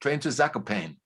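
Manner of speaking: "Zakopane" as zak-o-PAYN, E dropped; the wrong way again, final E silent; mispronounced Zakopane. Retold or imitated. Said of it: "without that accent, they said".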